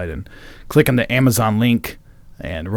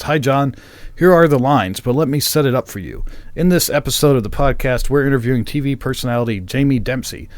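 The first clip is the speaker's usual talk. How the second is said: lightly raised reading voice; email read-aloud; 3 semitones higher than usual. Acted. Host reads a listener's email to co-host, read-aloud delivery. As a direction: read the letter out plainly to listeners.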